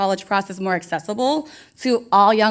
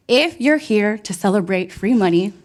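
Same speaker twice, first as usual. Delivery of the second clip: hype call; 4 dB louder than usual. Real, not acted. MC hyping the audience to scream. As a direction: pump the crowd up.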